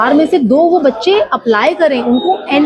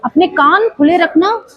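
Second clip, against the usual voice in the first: higher, excited, "बहुत, बहुत" building up; animated for children; 3 semitones higher than usual. Shown as a demonstration. Coach hypes up children to pay attention, higher and eager. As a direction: build excitement like a teacher with kids. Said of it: "इसी बात को मैं बोलती हूँ अलग तरीके से".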